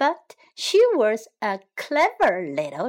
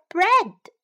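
high, loud chick voice; little chick; 8 semitones higher, 5 dB louder than usual. A narrator's reading. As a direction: pipe up as the clever chick. Pip stalls the fox.

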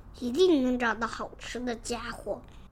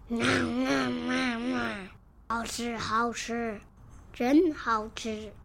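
greedy dinosaur. Acted. (霸王龙慢慢地享受美味)

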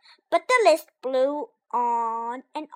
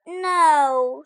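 shouted; 3 semitones higher, 8 dB louder than usual. Acted. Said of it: "shouted Toad".

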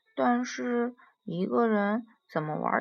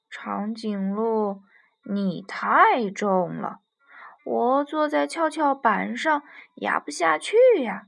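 complaining puppy; 5 dB louder than usual. Acted. Puppy on the seesaw tells giraffe it is too heavy, complaining.

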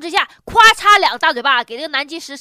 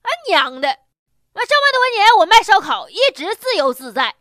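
impatient; 4 semitones higher, 4 dB louder than usual. Retold or imitated. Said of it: "摊主不耐烦地说".

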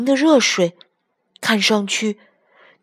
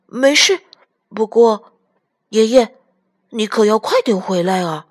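reassure, then urge grandpa eagerly; earnest child asking him to come back; pleading grandchild; 2 semitones higher, 4 dB louder than usual. A narrator's reading. Child urges grandpa to return soon.

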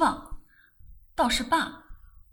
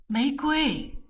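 a mild imploring call; pleading; 3 semitones higher than usual. Acted. Brother begs silent sister to speak, mild plea. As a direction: call her name, begging lightly. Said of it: "我哀求".

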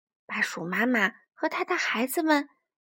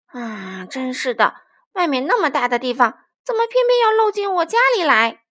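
storybook tantrum, building louder; badger losing his temper; 8 dB louder than usual. A narrator's reading. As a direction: scold the leaky roof as a cross badger. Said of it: "獾先生正对着屋顶发脾气呢".

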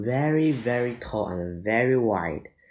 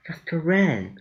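high, louder urgent call; urgent cry; 6 semitones higher, 3 dB louder than usual. Acted. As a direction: yell it to get him moving. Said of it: "cried Annie".

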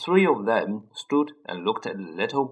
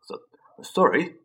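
sobbing; 6 semitones higher than usual. A narrator's reading. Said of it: "sobbed Hagrid".

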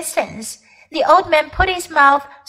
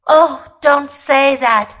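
babbling; 4 dB louder, slower than usual. Acted. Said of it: "babbled Uncle Andrew".

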